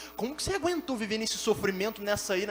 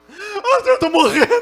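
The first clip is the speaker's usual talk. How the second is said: exaggerated, high, loud mock crying wail. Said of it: "já chega chorando".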